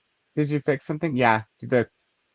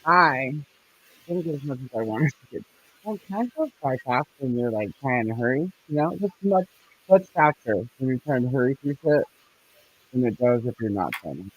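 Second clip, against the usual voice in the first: muffled. Real, not acted. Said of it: "You sound muffled".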